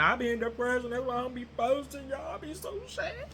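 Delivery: a hint of pitiful whining, pitch climbing; mock sad. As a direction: play it lightly sorry for yourself. Imagined sad confession to fans.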